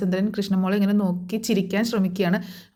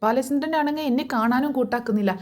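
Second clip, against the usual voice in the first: pitched-up, mock-agitated complaint; higher-pitched imitation of an upset wife; fuming retold; 4 semitones higher than usual. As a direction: retell her boiling over in a raised, higher voice. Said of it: "വൈജ ഇങ്ങനെ കിടന്ന് തിളയ്ക്കുകയാണ്".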